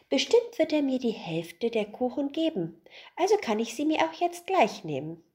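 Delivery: lightly voiced boy, pleased with his excuse. Boy's greedy reasoning. (Junge, höher und eifrig)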